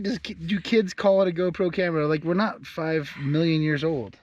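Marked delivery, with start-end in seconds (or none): 0.0-2.1 imitating girlfriend. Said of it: "You said".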